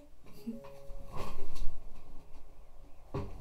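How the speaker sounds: laughing. Real, not acted. Laugh after saying bye.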